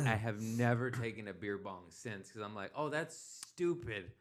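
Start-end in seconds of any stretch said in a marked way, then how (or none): 2.8-4.1 higher, slow drawn-out scorn; dismissive. Retold or imitated. Looking back on the beer bong, slow mock scorn. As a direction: drag out the word stupid.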